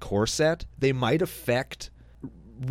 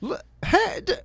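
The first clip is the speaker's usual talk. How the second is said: surprised. Real, not acted. Sudden interruption, high pitch.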